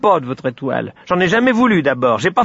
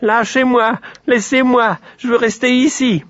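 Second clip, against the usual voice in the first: high, squealing piglet protest; struggling little creature yelling to be freed; crying out loudly; 14 semitones higher, 4 dB louder than usual. A narrator's reading. Piglet fights the sun's grip, high yelling. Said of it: "criait de toutes ses forces".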